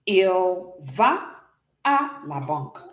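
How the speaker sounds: "Il va à la banque" with à said clearly; French demo sentence; French model line. Shown as a demonstration. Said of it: "I will say".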